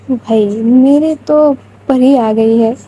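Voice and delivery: slow, dreamy lovestruck murmur; a hint of a dazzled admirer; lovestruck daze. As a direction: say it like she can't believe the beauty before her. Smitten thought voiced in story.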